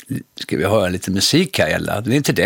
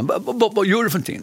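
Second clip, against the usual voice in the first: Bergman voice; 9 semitones higher, faster than usual. Retold or imitated.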